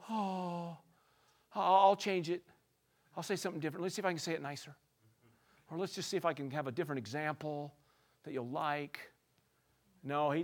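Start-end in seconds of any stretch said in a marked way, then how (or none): 0.1-9.0 much softer, meek offer to change; mock timid pleading. Preacher pretending Jesus meekly offers a nicer example, soft plea. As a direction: coax them back in a small voice. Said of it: "he didn't say".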